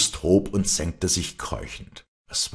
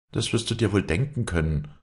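understated proud retort, slightly higher; proud reply; 5 semitones higher than usual. Acted. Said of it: "sagte Walli stolz". (stolz erwidert)

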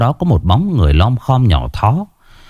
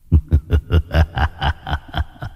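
low, soft sinister laugh; evil cackle; 6 semitones lower, 5 dB quieter than usual. A narrator's reading. Demon guard mocking the son, evil cackle. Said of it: "ngửa cổ lên cười sằng sặc".

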